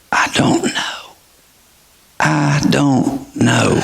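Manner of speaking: tearful admission. Retold or imitated. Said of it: "She began to tear up".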